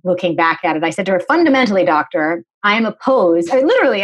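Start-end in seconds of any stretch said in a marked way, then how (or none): 1.2-4.0 precocious, mock-formal pronouncement to the doctor; formal lecturing tone. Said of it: "I'm talking like this to her".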